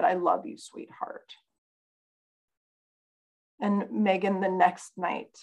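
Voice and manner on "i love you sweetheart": tender. Retold or imitated. Mother quoting her gentle words.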